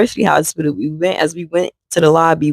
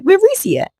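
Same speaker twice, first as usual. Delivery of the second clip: urgent demand. Retold or imitated. Demanding answer at the door.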